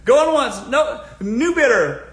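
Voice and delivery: loud, high auction call again after laughing; auctioneer call. Shown as a demonstration. Vlogger demonstrating the auction to viewers, loud auctioneer call. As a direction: call it out like the gavel's up. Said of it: "start treating it like you're an auctioneer".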